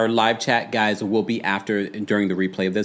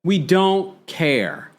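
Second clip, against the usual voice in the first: pitched-up dismissive retort, slowing at the end; 6 semitones higher than usual. Retold or imitated. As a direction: wave her off with mock indifference. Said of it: "I'm like".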